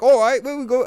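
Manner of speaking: high, loud mock Scottish accent; bad Scottish accent. Streamer imitating Cait Sith, poor Scottish accent. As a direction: attempt a hammed-up Scottish accent. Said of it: "I can't do a good Scottish accent".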